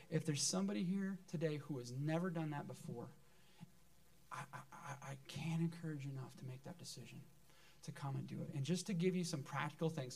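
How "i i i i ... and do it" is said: urgent whisper. Real, not acted. Pastor pleads with the unbaptized in an urgent whisper. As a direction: drop to an intense whisper. Urging newcomers to get baptized.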